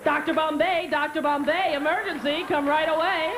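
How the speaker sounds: loud rhythmic call; incantatory summons. Acted. Bewitched witch summoning doctor in emergency, loud chant. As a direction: chant it out like a TV spell.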